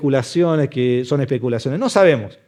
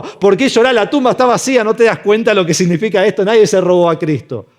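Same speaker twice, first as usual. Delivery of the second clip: higher-pitched, insistent questioning; incredulous angels; 5 semitones higher, 3 dB louder than usual. Acted. Angels questioning weeping Mary at the empty tomb, incredulous. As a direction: press the questions in disbelief.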